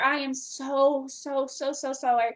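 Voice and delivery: heartfelt, drawn-out "so"; sincere apology. Real, not acted. Host apologising live to a visiting friend, sincere. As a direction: apologise earnestly, stretching each "so". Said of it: "so you know I'm sincere".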